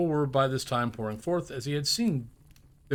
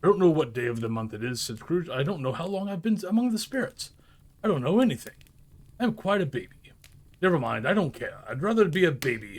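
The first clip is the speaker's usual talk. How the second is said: put-on higher, excited childlike rambling; giddy babble; 4 semitones higher than usual. Scrooge confessing he knows nothing, giddy. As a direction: sound as silly as a baby.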